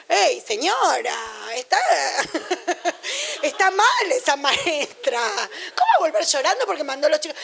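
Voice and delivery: mock outrage through laughter; half-laughing, scoffing at the teacher; amused child scoffing; laughing mockery. Daughter mocking teacher, laughing.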